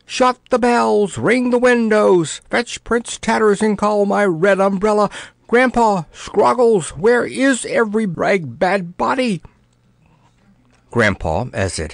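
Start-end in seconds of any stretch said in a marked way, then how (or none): 0.1-9.4 panicked shouting. Acted. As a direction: bellow orders in a muddle of fright. Panicked king shouting orders.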